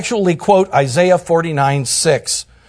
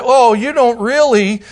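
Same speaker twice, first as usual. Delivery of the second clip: mock whining. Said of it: "we start whining about it".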